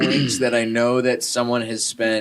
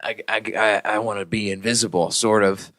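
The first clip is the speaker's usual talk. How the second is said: lightly put-on New Zealand accent, low and gruff; a hammed-up Kiwi warrior voice, a touch lower; New Zealander accent; 3 semitones lower than usual. Mocking a LOTR fighter in a mild New Zealand accent. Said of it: "That's my version of a New Zealander accent".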